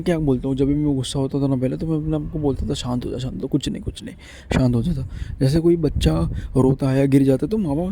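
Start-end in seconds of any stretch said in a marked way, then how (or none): 2.7-5.1 soft, hushed reassurance, partly whispered; soothing self-talk. Retold or imitated. To himself when angry, a soft soothing hush. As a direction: gently hush yourself down like a child.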